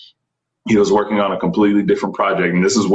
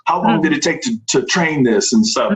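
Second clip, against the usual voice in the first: casual fan voice; 9 semitones higher than usual. Retold or imitated. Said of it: "some dude in the comments".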